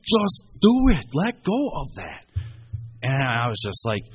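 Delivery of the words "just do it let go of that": high, loud, drawn-out imitated cry; retold desperate plea. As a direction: stretch each word as you beg, voice pitched way up. Retold cousin's desperate plea to let go.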